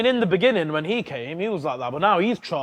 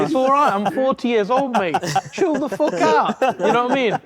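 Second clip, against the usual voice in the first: exasperated; 8 semitones higher, 4 dB louder than usual. Retold or imitated. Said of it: "And I'm like".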